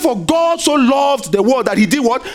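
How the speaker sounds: shouted out to the congregation; preaching shout. Real, not acted.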